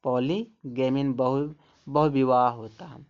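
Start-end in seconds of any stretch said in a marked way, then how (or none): 0.0-1.0 पॉलीगैमी said slowly, every syllable clear, ending on a long ई; teacher models पॉलीगैमी slowly, ending on a long ई; slow word demo. Shown as a demonstration. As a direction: spell out पॉलीगैमी slowly for the class. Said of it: "वाई को उच्चारण देखो बड़ी ई निकल रहा है".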